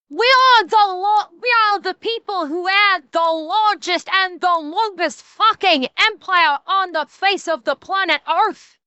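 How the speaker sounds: shaky attempt at a Scottish accent; rough Scottish accent. Shown as a demonstration. Streamer trying the clip's line back, rough Scottish accent. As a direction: have a go at Scottish, not very convincingly. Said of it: "can't really do Scottish all that good".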